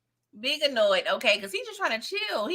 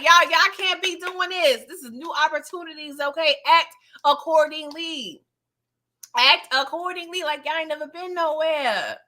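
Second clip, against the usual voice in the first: scolding hostess; 4 semitones higher than usual. Retold or imitated. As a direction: lecture the girls to act right, emphatic. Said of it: "She's like".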